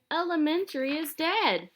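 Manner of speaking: high alarmed shout; horrified shout. A narrator's reading. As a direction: blurt it in horror. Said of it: "shouted Alexia".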